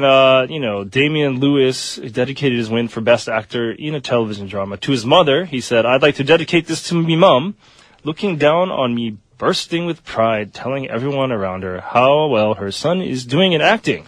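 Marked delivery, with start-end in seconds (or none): 5.9-14.0 shaky attempt at a British accent. Radio host quoting an actor's award speech, attempted British accent. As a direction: put on an amateur British accent, slowing midway. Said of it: "You need to work on your accent".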